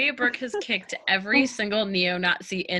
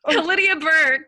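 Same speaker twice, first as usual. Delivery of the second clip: high, loud rousing toast; 7 semitones higher, 7 dB louder than usual. Acted. To the bar table, a loud rousing toast. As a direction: raise the glass and belt it out.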